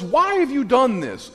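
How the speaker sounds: hammed-up anguished wail; anguished complaint. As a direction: cry out to God in despair. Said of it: "he just addresses God and says".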